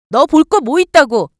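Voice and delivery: sharp, high, loud scornful jab; angry retort. Acted. Wife lashing out at pleading husband, loud and scornful. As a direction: spit it at him in contempt.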